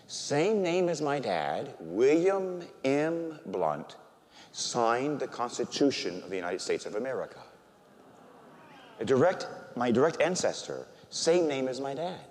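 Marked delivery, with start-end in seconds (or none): none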